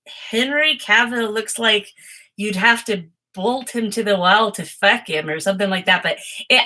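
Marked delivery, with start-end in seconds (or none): 0.1-5.3 rough attempt at imitating Scarlett's accent; imitated friend's accent. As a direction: imitate a friend's accent, not quite getting it. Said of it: "let me get your accent better".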